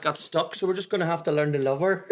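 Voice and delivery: high, loud, laughing through the joke. Real, not acted. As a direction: giggle while spinning the joke. Laughing joke about granny.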